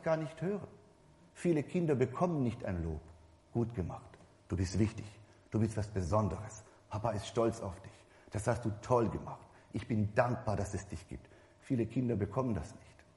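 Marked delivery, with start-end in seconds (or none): 3.5-11.3 put-on softer and lower, like a proud father reassuring his child; a father praising his child, lower and soft; tender father's praise. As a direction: gently tell the child it matters.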